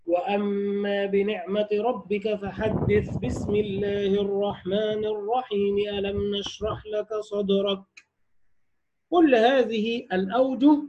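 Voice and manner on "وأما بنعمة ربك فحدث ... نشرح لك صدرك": slow, soft tajweed recitation, every part flowing into the next; Quran recitation, all joined. Shown as a demonstration. Teacher demonstrating to students joining all three, slow melodic recitation. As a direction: recite slowly, joining the sura's end, basmala and next sura. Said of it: "الوجه الثالث وصل الجميع".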